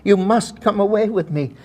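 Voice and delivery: loud, high imitated stage plea; hammed-up demonstration of romantic urgency; Helen Hayes. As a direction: show him forcefully how the lover pleads. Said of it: "she started playing the scene".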